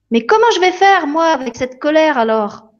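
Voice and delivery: Lily asking the fairy what to do; worried little girl. Acted. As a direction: plead it like a lost child.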